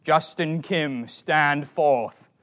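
a hint of a stern old British judge, slow; mock pronouncement from the bench, drawn out; lightly hammed-up wigged judge summoning the accused. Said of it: "in my imagination, the judgment was".

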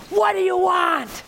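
gruff shouted what do you want, slowed; mock angry shout from behind the door; angry bark. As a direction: bark it like a furious homeowner at the door. Angry woman at door, retold.

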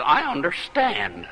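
slow and dull; lightly voiced listless woman. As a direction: say it half asleep. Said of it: "she talked just like she looked".

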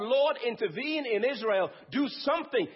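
mildly pleading prayer. Retold or imitated. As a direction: urge God to step in, lightly acted. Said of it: "he's pleading to God".

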